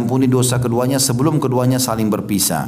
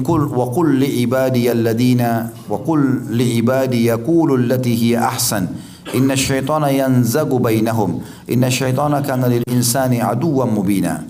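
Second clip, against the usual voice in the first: Quran recitation. Acted. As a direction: recite the verse like tilawah. (lantunan tilawah Al-Quran)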